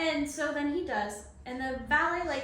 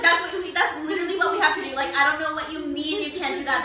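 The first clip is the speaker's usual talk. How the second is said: fast exasperated insisting; 2 semitones higher, 6 dB louder, faster than usual. Retold or imitated.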